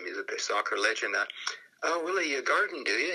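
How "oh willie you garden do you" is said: higher-pitched, retold polite chat; making small talk. Driver to soccer legend in the back, retold small talk. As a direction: make conversation with a legend, lightly acted. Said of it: "what do I say to him?".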